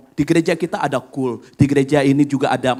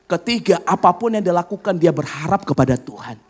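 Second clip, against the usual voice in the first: retold prayer. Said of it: "saya gelar perkaranya seperti apa".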